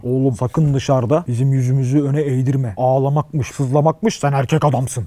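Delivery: low, slow stern father voice. Retold or imitated. Father warns his son not to cry, low and slow. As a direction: lecture like a strict dad, slowly.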